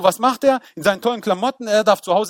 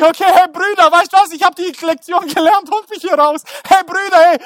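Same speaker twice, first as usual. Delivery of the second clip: Joseph calling up; 7 semitones higher, 5 dB louder than usual. Acted. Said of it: "er ist unten und denkt sich".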